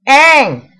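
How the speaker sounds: put-on a loud, curt name in an Asian accent; thick Asian accent. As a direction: snap the name back in a heavy Asian accent. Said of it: "thickest Asian accent I have ever heard".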